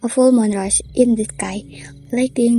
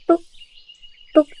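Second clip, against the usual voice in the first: axe sound; 5 semitones higher, 5 dB louder than usual. A narrator's reading. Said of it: "the distant sound of an axe chopping wood".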